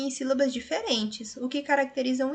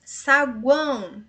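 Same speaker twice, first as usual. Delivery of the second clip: Saguão drawn out slowly; slowed classroom Saguão; slow syllable demo; 2 semitones higher, 6 dB louder, much slower than usual. Shown as a demonstration. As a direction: let Saguão glide slowly. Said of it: "Olha o tritongo aqui".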